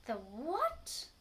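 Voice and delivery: loud, shrill-voiced alarm; scream. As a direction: yell the question in fright. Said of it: "screamed Missus Twit".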